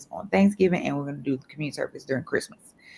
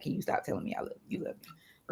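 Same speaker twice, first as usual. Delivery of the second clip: imitated child; 11 dB quieter than usual. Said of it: "your child is over here like".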